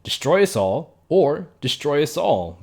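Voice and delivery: escalating mock-ominous warning; mock doom-saying. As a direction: hammer each repeat a little harder, dramatically. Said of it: "Very Billy and Mandy of her".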